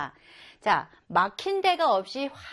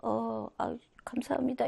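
softer, hesitant mumbled thanks; timid thanks; 7 dB quieter than usual. Acted. A shy person thanking an elder, softer and hesitant. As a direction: thank them shyly and half-heartedly. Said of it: "이게 아니라".

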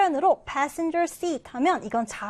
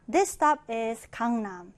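subway announcement; 3 semitones lower, much slower than usual. Retold or imitated. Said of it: "영어도 잘 한번 들어보세요".

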